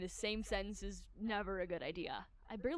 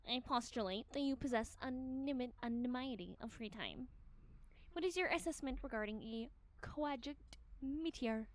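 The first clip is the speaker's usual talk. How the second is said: pompous detective. Acted. Shigure voiced, pompous.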